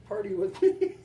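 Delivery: high, laughing party call; laughing invite. Real, not acted.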